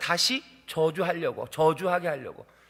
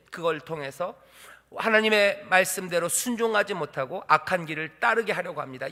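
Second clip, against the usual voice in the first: normal talking voice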